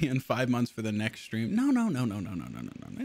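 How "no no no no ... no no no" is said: mock denial. Streamer taking back his joke to chat, no's sinking low. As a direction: let each no sink lower and fade.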